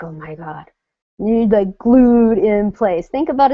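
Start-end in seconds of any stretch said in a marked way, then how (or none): 0.0-0.7 frozen gasp. Retold or imitated. Frozen, stiff, not confident.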